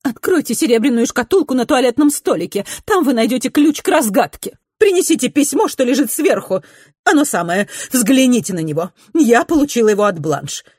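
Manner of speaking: loud, high and frantic; urgent shouting. A narrator's reading. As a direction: cry out the orders in a rush of alarm. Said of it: "крикнула она".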